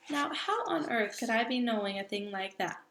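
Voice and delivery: a hint of a booming giant, firm and sure; lightly voiced big friendly giant. Giant lectures the little girl about giants, lightly voiced.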